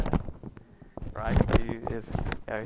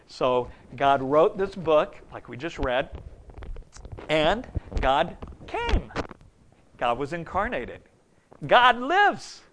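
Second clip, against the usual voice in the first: louder, higher full-force preaching; 5 semitones higher, 7 dB louder than usual. Acted. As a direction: proclaim the incarnation.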